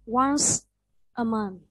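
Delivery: "once" with a clear final s, then a short break before "a month". Shown as a demonstration. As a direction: model "once", letting the s ring out. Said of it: "Similarly, this C E at the end". (đọc mẫu "once" rõ âm s cuối)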